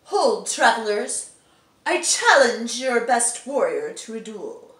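loud, proud archaic challenge; stagey fake archaic declaiming. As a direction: call out like a stage knight. Voice actor trying line takes.

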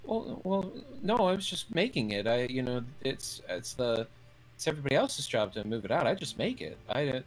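high, fast flustered defense; flustered cook. Acted. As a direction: babble defensively. Fern answers, flustered.

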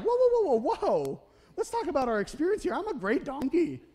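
hammed-up talking donkey begging for calm; panicky donkey. Donkey pleading with angry Balaam, high and panicky.

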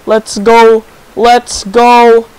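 breathless giddy celebration; excited cheering. Real, not acted. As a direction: celebrate a big win. First kill celebration.

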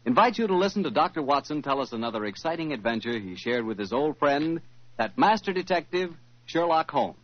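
bright announcer selling sherry; old-time radio sponsor read, upbeat. Acted. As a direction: pitch the wine like a sponsor's announcer.

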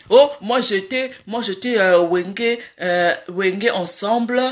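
imitating his affected French accent, low and hesitant; mock French accent. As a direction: put on a halting French accent. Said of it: "na accent".

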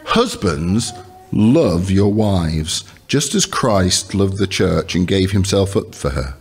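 measured Bible reading with long pauses; scripture reading. Acted. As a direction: read it out deliberately, weighting key words. Reads scripture aloud to congregation.

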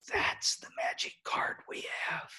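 intense whisper to the room; hushed emphasis. Real, not acted. Speaker giving music teachers the moral, whispered. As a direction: whisper it like a precious secret.

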